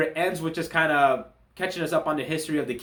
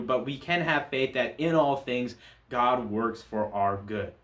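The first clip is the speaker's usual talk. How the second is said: slower and lower, each word weighed; earnest conclusion; 3 semitones lower than usual. Real, not acted. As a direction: land the lesson gently and sincerely. Closing lesson summed up earnestly.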